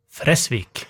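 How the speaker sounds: Fresvik with short E and long S; kort E, dobbel S. Shown as a demonstration. Cohost saying it together with the host, short E in Fresvik. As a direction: say Fresvik carefully as Fressvik. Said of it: "nå har vi uttalen rett".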